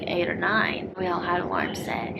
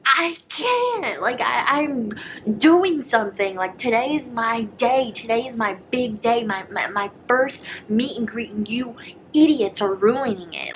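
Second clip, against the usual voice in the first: loud, high, fed-up protest; exasperated outburst; 4 semitones higher, 4 dB louder than usual. Retold or imitated. Daughter-in-law snapping back at her meddling in-law. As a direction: retell it like you snapped back in frustration.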